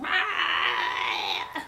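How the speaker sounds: high yelled hype-bro bark; hyped shout. Retold or imitated. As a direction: yell it like a hyped-up vlogger. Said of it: "he's, like, putting on this act".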